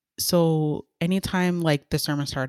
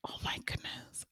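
breathy whispered exclamation; whispered aside; 19 dB quieter than usual. Real, not acted. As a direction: exhale the words in a whisper. Overwhelmed after the story.

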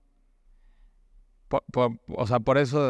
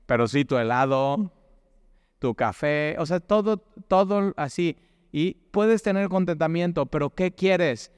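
excited; 5 semitones higher than usual. Real, not acted. Rising excitement about comforts.

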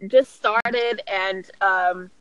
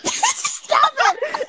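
laughing plea. Real, not acted.

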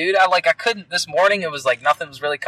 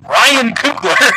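announcer voice; 8 semitones higher, 5 dB louder, much slower than usual. Pretend. Announcing name dramatically.

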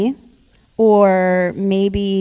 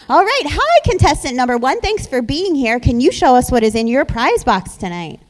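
game show host; 3 semitones higher, 6 dB louder than usual. Acted. Hosting contestants on stage.

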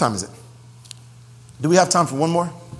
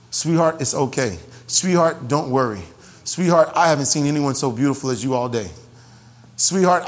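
tender reassurance; 2 semitones lower than usual. Shown as a demonstration. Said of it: "Speak over her".

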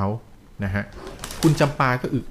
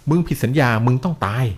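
emphatic, mildly menacing death threat; storyteller imitating an angry spirit; retold shouted threat; 3 dB louder than usual. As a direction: hammer out the threat without really shouting. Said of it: "ขู่ตะคอกเสียงดังลั่น".

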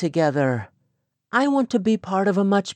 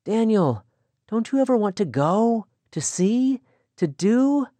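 eager, higher voice full of dreams; young woman longing for the world, excited; 7 semitones higher than usual. Acted. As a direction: pour out her dreams with growing eagerness. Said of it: "there was excitement in her voice".

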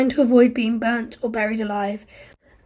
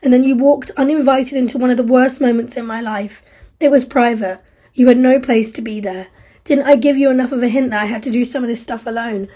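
louder, bitter reproach; guilt and rebuke; 5 dB louder than usual. Acted. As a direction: turn the guilt on her. Steve confesses guilt, then rebukes Isla.

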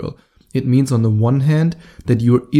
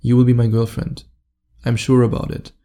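sure, matter-of-fact statement; confident. Shown as a demonstration. Coach telling her she will be his girlfriend, confident. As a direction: state it as settled, no pleading. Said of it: "I say this in a confident way".

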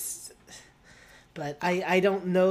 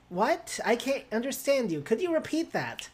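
higher-pitched imitation of Siri; 5 semitones higher than usual. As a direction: pitch it up like a puzzled voice assistant. Mimicking Siri's confused reply.

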